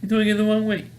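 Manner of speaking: high-pitched heckling of a wrong-way driver; mock cursing out. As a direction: imitate irate strangers yelling, pitched well up. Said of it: "people are cursing him out".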